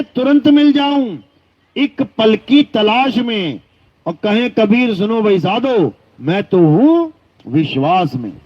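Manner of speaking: intoned devotional verse, falling at the close; verse recitation. Acted. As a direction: recite a saint's couplet, drawing out the phrases.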